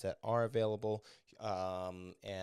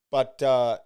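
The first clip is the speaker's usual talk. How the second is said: ordinary talk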